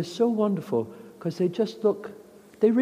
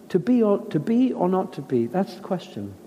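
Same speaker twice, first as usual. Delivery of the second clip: uncertain, searching Hamlet; 2 semitones higher than usual. Shown as a demonstration. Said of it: "find in that moment".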